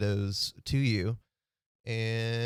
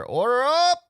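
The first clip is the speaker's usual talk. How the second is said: much higher, loud cook's call; 10 dB louder than usual. Acted. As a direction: belt it across the diner like a cook. Cook calls from the kitchen.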